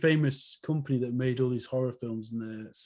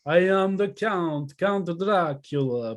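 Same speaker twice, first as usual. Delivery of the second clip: slow, drawn-out hammy vampire count; lightly voiced slow Dracula with a Russian tinge; Count Dracula impression; 4 semitones higher, much slower than usual. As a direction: ham up a Dracula intro, slowly. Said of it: "I was trying to do".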